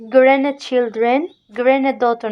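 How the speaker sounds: "Grandchildren, granddaughter" with the middle d left silent. Shown as a demonstration. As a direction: model "Grandchildren, granddaughter", gliding over the d. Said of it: "ne prononce pas D au centre". (« Grandchildren, granddaughter » sans prononcer le d du milieu)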